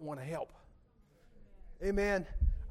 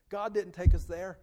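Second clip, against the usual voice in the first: louder, driven statement; emphatic repeat; 9 dB louder than usual. Shown as a demonstration. Preacher insisting to the church, louder. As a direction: hammer it to the congregation.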